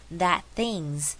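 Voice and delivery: THAT THINGS with the t of that left out; T省略. Shown as a demonstration. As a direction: run "that things" together, no released t. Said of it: "我又省略了that的T". (that things省略that的T)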